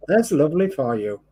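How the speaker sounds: a light Welsh lilt on "There's lovely for you"; Welsh accent. Shown as a demonstration. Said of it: "In a Welsh accent, of course".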